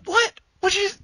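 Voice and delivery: squeaky high, shocked "What?"; startled yelp. Retold or imitated. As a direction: blurt it out like a man caught off guard.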